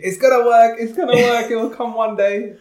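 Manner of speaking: high, loud, repeated mantra; hammed-up dogged optimism; insistent self-belief. Guest retelling hopeful thoughts from office, insistent. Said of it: "Just sat there just thinking".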